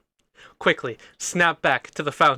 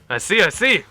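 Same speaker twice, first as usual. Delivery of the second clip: villain muttering aloud; 3 semitones higher, 4 dB louder than usual. Acted. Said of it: "talks to himself, but loud".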